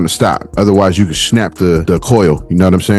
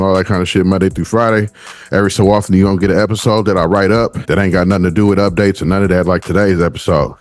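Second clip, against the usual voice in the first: winded after running; out of breath; 4 semitones lower, faster than usual. Real, not acted. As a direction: talk while still catching breath. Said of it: "the reason why I'm out of breath".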